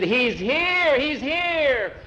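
high-pitched cries of recognition; women exclaiming in excitement; excited cry. A narrator's reading. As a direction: cry it out high, twice over.

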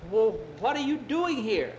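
high, loud astonished question; startled question. Acted. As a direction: ask it in acted amazement. Startled boy confronts stranger.

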